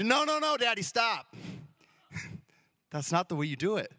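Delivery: a child's indignant squeal, hammed up; protesting little girl. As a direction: play the bossy daughter stopping the race. Daughter stopping dad, voiced by him.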